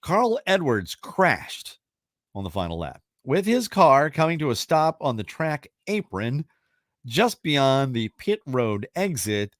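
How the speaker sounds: measured host read with swooping stresses; deliberate, suspenseful question reading; quiz question read. Acted. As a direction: read it out like a trivia host, stretching key words. Reads the trivia question aloud.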